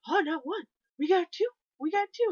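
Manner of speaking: high, loud mock taunt; teasing heckle; taunting fan. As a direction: rap on the glass and jeer. Fan taunting goalie at glass.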